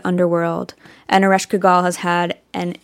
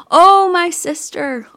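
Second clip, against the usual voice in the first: loud, high grieving wail; crying out in grief; 10 semitones higher, 6 dB louder than usual. Retold or imitated. Grieving goddess cries out for her husband, wailing. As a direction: let the grief burst out on Oh. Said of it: "she's crying out".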